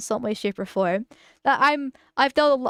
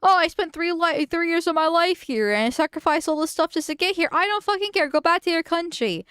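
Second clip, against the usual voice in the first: furious shouted rant, pitch way up; swearing tirade; 6 semitones higher than usual. Real, not acted. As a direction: yell it straight at them in fury. Raging at foreigner in clip.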